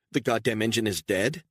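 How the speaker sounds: can't believe the engine is dead; stranded woman, panicking in disbelief; alarmed disbelief. Acted. Engine fails, Beatrice panics.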